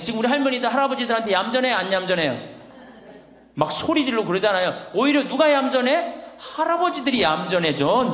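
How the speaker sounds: ordinary delivery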